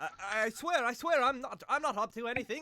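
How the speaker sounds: shouting. A man dragging a cart shouts as a knight pulls back its cover: shouting. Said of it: "you can hear him shouting like".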